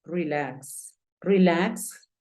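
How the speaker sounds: "relax" said "ree-laks"; long ee in the first syllable of "relax"; changed first vowel. Shown as a demonstration. Teacher applying vowel rule, "relax" as ree-laks. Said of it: "entonces suena relax".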